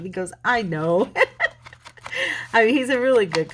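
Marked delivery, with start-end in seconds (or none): 0.4-1.1 a laughing admission. Retold or imitated. Coworker admitting he's nosy, laughing. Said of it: "He was laughing". 1.1-2.5 high breathy giggle; high laugh. Real, not acted. Telling viewers a funny story, high giggle.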